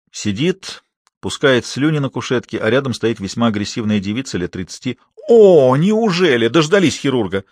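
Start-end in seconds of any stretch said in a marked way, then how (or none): 5.3-7.4 loud, high, slow defiant outcry; defiant wail. A narrator's reading. Angry woman greets the late surgeon with a defiant wail. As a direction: wail at the doctor with a challenge. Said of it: "с вызовом заголосила девица".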